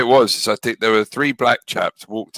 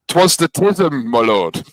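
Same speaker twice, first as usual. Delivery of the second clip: pleading a little higher; mock pleading; 4 semitones higher, slower than usual. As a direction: beg the judge in mock earnest. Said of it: "I'm just gonna go".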